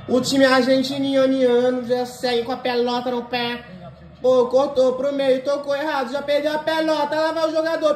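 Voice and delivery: play-by-play commentary. Acted. Mock match play-by-play.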